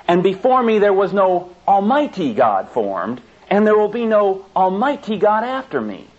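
mock reading of the verse with "almighty" inserted and pushed; mock misquote. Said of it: "this verse doesn't say".

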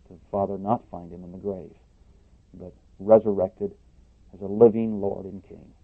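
soft reverent prayer voice; hushed closing prayer to the Father. Acted. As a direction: pray quietly and humbly.

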